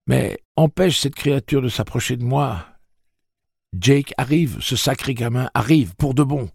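high-pitched, pressing alarm; urgent warning. A narrator's reading. Eddie warning Roland that Jake is coming, urgent and high. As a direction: plead urgently, voice pitched right up.

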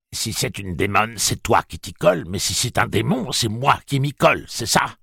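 mocking Southern plantation accent. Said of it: "sa voix prenait des accents de plantation sudiste".

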